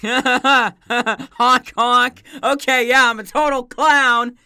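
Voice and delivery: high, loud honking clown voice; silly clown. Pretend. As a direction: ham it up like a clown. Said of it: "you just sound like a total clown".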